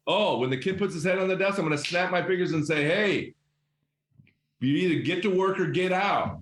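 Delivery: mock grumpy teacher. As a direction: parody the grumpy teacher snapping at a kid. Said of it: "is that what you said in the interview chair?".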